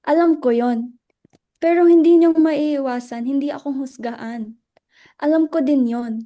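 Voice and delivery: loud, hurt insistence at the group. Acted. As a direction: plead hard, voice pushed up in distress. Luella pleads against being judged.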